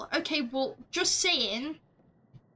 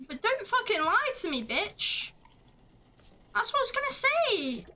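mock angry; 9 semitones higher than usual. Snapping at the game.

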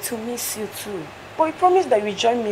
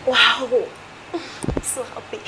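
giddy with joy; joyful laugh after good news; happy laugh; 2 semitones higher, much slower than usual. Acted. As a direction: laugh with delight. Joyful laugh about future.

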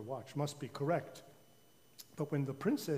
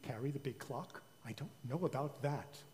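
doubtful king; 8 dB quieter than usual. A narrator's reading.

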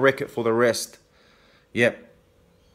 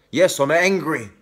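raised, heated admission of anger; openly angry; 3 semitones higher than usual. Real, not acted. Admitting anger to critics in a heated defiant voice. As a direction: say it defiantly, fired up.

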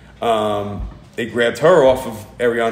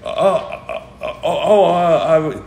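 imitating a caught-off-guard detective stammering, higher; flustered detective; 7 semitones higher, 4 dB louder, slower than usual. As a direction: stammer like someone who has no idea what to say. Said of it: "he didn't know what to say".

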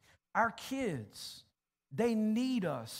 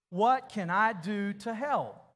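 louder and slow, every word landed; said out loud like you mean it; 4 dB louder, slower than usual. Shown as a demonstration. Preacher leading the congregation, louder and slow. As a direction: proclaim it together with full conviction. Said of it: "Say it like you mean it".

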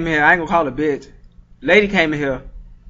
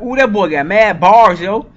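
mock hyped fan. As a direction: gush like a fan hearing bars. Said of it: "y'all gonna be like".

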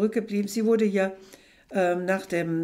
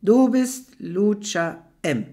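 firm assertion; 7 dB louder, slower than usual. Acted. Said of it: "bekräftigt er".

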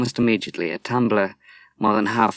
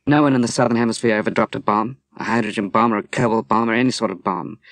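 indignant protest; 3 dB louder, faster than usual. Acted. Moira protesting the unfair fallout.

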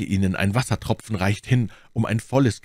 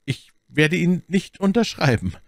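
high-pitched incredulous echo; incredulous question; 10 semitones higher, 3 dB louder than usual. A narrator's reading. Buckingham questioning Felton's order, astonished and high. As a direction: throw the words back in disbelief. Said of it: "fragte Buckingham".

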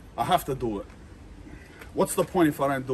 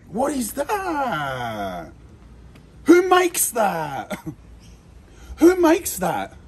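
slow, pained laugh of disgust; half-crying, half-laughing at the stench; 4 semitones higher, 5 dB louder, much slower than usual. Real, not acted. Laughing in disgust at the rotten fish.

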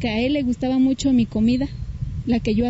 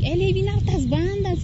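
high, thrilled retelling of his news; excited brother; 8 semitones higher than usual. Retold or imitated. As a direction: lift the voice like a delighted kid. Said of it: "y bien contento".

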